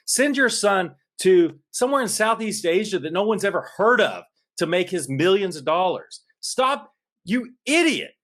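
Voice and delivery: rising, worked-up rant that peaks high on the final stop; real outrage building toward a near-shout; getting loud. Real, not acted. Podcaster telling off Joe Biden, getting loud and high. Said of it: "I know I'm getting loud".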